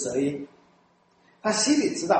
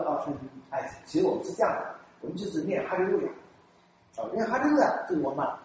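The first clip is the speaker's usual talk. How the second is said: hesitant pastor; 5 dB quieter than usual. Retold or imitated. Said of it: "他说".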